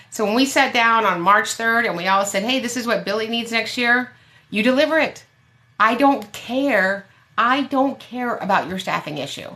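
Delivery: real indignant rant; worked up. Real, not acted. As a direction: let the frustration boil over. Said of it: "I got a little worked up there".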